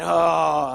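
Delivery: loud exasperated "oh"; hammed-up groan of frustration; mock angry groan. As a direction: act out a man's annoyed outburst. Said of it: "And then he's mad".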